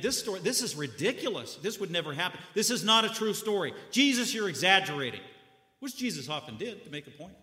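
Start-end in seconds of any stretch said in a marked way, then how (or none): 0.0-5.2 doubting audience. Retold or imitated. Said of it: "they probably begin to think".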